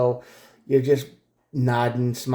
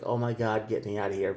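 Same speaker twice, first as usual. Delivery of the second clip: softer, weary, trapped; exasperated under breath; 2 semitones lower, 6 dB quieter than usual. Retold or imitated. The reader voicing the listener's wish to escape, softer and exasperated. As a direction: sigh it out like you want to escape.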